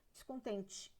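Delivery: "descontente" ending in a weak "tchi"; final E as I. Shown as a demonstration. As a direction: say "descontente" with the last E reduced to an unstressed I. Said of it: "o E vira I". ("descontente" com o E final fraco, soando I)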